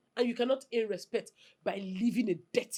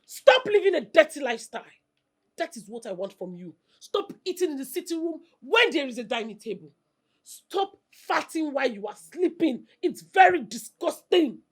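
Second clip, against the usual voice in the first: scolding; 3 semitones higher, 5 dB louder than usual. Acted. Wife scolding husband loudly.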